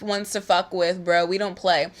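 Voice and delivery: ordinary delivery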